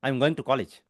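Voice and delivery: going and college stressed, small words barely heard; English rhythm. Shown as a demonstration. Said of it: "easy गोइंग में pronounce". ("going" और "college" पर ज़ोर, बाकी दबे हुए)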